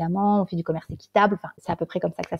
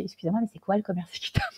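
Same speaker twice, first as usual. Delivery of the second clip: flustered question; 10 dB quieter, faster than usual. Retold or imitated. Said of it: "je le regarde, je fais".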